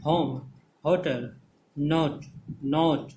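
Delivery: होम, होटल, नॉट with an "ou" glide; separated, careful होम, होटल, नॉट as foreigners say them; foreigners' pronunciation. Shown as a demonstration. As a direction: model होम, होटल, नॉट one by one, "o" sliding to "oo". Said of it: "इस तरह से बोलता है".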